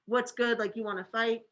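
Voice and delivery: "What's good?" as a light challenge to fight; a touch of picking a fight; mild confrontational. Shown as a demonstration.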